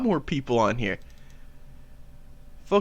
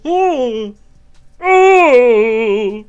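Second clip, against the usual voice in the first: high, loud mock climax with moans; Jordan Peterson; 8 semitones higher, 10 dB louder, slower than usual. Comedian spoofs a psychologist climaxing, Jordan Peterson impression. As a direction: build from short high grunts to long shouted wails. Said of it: "This is what Jordan Peterson sounds like".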